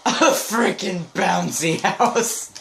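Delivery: slow, amused exclamation; delighted disbelief. Real, not acted. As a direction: laugh it out in surprise. Player opens crate, laughs.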